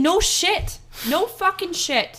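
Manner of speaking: high, loud scoff; emphatic agreement. Real, not acted. Backing up her friend's story, high and loud. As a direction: hit it hard, fully agreeing.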